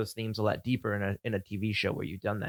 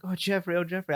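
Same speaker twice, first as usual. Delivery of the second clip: mock swooning Sandy; 8 semitones higher than usual. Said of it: "she's like".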